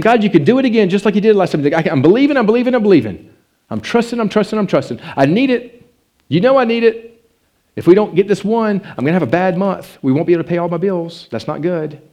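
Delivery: pleading loudly with God, almost crying out; desperate prayer. Retold or imitated.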